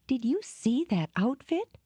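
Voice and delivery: high breathless excitement; thrilled. A narrator's reading. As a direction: gush over the outfit. Dora thrilled by outfit.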